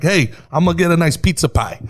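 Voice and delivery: a lightly voiced happy New Yorker; good-mood New Yorker. Demoing a good-mood New Yorker ordering pizza. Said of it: "someone is in a good mood".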